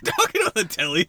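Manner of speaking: high, loud mocking echo of "Talking on the telly?"; mocking repeat. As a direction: throw "Talking on the telly?" back with scorn. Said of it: "That's not a thing".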